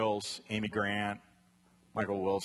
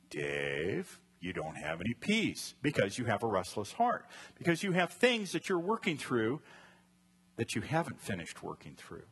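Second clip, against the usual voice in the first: second inner voice. Retold or imitated. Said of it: "voice number two comes through".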